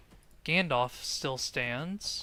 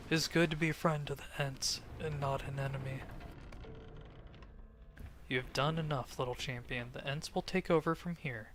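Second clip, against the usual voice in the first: Ent voice; 3 dB quieter than usual. Acted. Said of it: "not saying that in the Ent voice".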